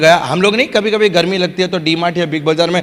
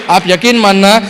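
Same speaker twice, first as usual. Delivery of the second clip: normal talking voice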